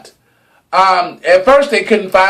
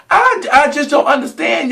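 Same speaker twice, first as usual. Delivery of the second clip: high exasperated cry; exasperated shout; 9 semitones higher than usual. Real, not acted. Exasperated outburst.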